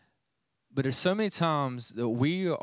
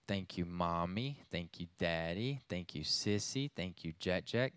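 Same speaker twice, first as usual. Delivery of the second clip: put-on toddler prayer; 5 semitones lower, 8 dB quieter than usual. Imitating toddler's bedtime prayer.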